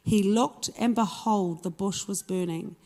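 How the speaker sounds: measured Bible narration, phrase by phrase; scripture reading. A narrator's reading. Preacher reads the burning bush story to the congregation, measured scripture reading. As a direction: read the passage out with firm phrase openings. Reads Exodus passage aloud.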